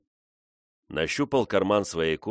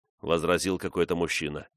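plain reading voice

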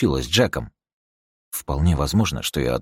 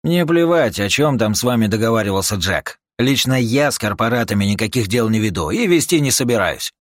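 gruff refusal; 6 semitones higher, 6 dB louder than usual. Acted. Юджин грубо отказывает корпоратке.

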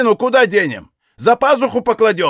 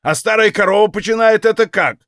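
higher, louder enraged shouting; bellowed; 6 semitones higher, 4 dB louder than usual. A narrator's reading. Father bellowing at his daughter, enraged. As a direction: roar at the daughter, stamping mad. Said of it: "оранул".

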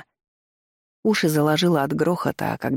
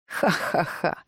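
whispery demonic cackle; demonic laugh; 2 semitones higher, 5 dB quieter, much slower than usual. A narrator's reading. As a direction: cackle under your breath like a demon. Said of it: "приступ демонического смеха". (демонический смех шёпотом)

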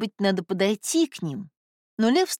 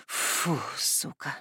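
whispered curse; 5 semitones lower, 8 dB quieter, much slower than usual. Acted. Relief after jump, swears.

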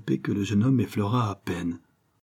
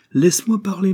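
forceful insistence; 10 semitones higher, 6 dB louder than usual. A narrator's reading. Father insists on speaking.

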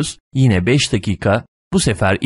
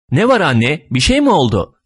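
put-on higher, inquisitive little girl's question; curious child; 6 semitones higher than usual. A narrator's reading. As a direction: ask mother with growing curiosity. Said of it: "Kız çocuğu büsbütün meraklanıp".

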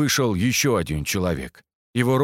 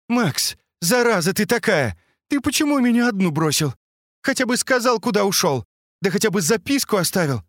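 put-on much higher reproachful girl's voice; scolding girlfriend; 10 semitones higher than usual. A narrator's reading. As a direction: scold him for leaving her behind. Katya scolds Max, hugging him. (девушка упрекает Макса, высоким голосом)

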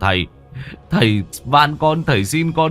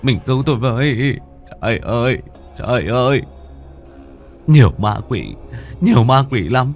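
panicked; 4 semitones higher than usual. A narrator's reading. Husband begging his wife to save him from demons, panicked. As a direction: build from pleading to a high panicked cry. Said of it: "mà hốt hoảng".

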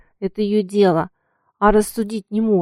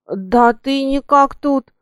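slow, drawn-out fake surprise, a touch higher and louder; feigned surprise; 4 semitones higher, 4 dB louder, slower than usual. A narrator's reading. Coachman teasing the girl, feigned surprise. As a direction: pretend to be amazed to see her. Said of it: "притворно удивился кучер".

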